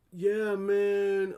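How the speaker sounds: loud, high, stretched-out imitation; drunk guy's greeting. Drunk guys at the gate answer the pool worker, loud imitation. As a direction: call it out like a drunk stranger. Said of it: "And they're like".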